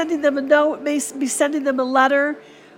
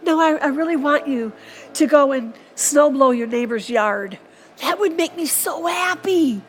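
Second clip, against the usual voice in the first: voicing Jesus; 2 semitones higher than usual. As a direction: lift the voice up, light and amused. Jesus voiced asking for snow blowing.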